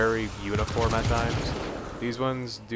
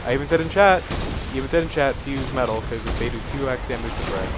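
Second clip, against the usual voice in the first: frustrated rant. Real, not acted. Ranting at teammates.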